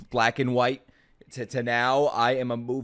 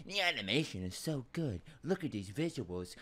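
mock cliche; 9 dB quieter than usual. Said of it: "very cliche to say".

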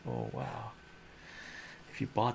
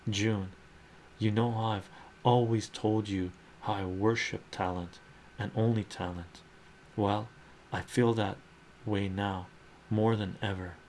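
a touch of a heartfelt suitor; character voice. Acted. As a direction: declare it with lightly hammed-up passion. Voices Mister Gray speaking to June.

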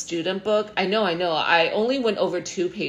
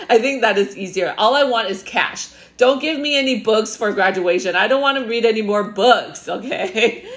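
laughing; 4 semitones higher, 5 dB louder than usual. Real, not acted. Laughing about the gift.

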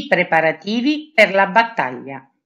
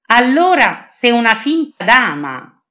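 louder, higher accusing cry; shouting; 4 semitones higher, 5 dB louder than usual. Acted. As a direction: catch her out with a shout. (grido d'accusa, più forte e più acuto)

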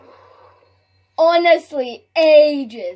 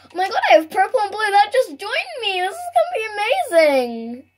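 quick, giddy gamer excitement; excited squeals; 3 semitones higher than usual. Real, not acted. Streamer thrilled her teammates joined, excited. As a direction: gush over the new teammates. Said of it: "I'm talking so weird".

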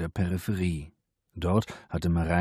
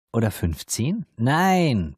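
protesting; 6 semitones higher, 5 dB louder, slower than usual. A narrator's reading. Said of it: "protestierte Mareike".

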